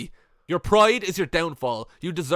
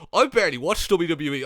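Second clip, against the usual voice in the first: sing-song mocking of a smug fan; mocking quote. Mocking a smug fan who claims not to watch WWE. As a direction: mimic the smug commenter. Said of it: "when they're saying".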